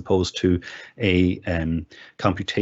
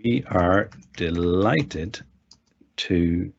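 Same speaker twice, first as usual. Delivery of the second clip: slow, halting, word by word; drawn-out words with gaps between; dictating while typing; slower than usual. Real, not acted. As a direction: speak each chunk as you type it. Dictates aloud while typing text.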